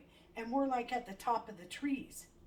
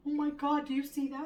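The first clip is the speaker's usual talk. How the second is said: surprised; 6 semitones higher, 9 dB louder than usual. Retold or imitated. Friend spots car in tree.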